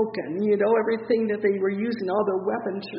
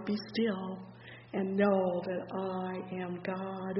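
softer, slow, hushed verse; hushed scripture; 6 dB quieter, slower than usual. Real, not acted. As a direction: let it sink in quietly.

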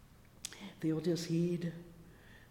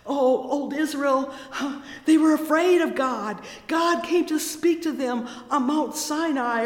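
loud, fervent, higher preaching; preaching at full force; 4 semitones higher, 7 dB louder than usual. Acted. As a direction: preach it out with rising fervour.

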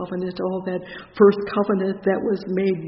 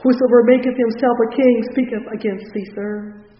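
raised preacher's voice for a crowd's cry; 2 semitones higher, 7 dB louder than usual. Retold or imitated. Preacher voicing the Jews pressing Pilate, crying out. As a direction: retell the outcry in a loud, pressing voice. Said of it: "But the Jews cried out".

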